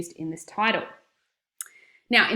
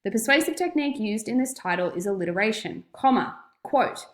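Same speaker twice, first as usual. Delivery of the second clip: dictating. Shown as a demonstration. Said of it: "it might sound something like this".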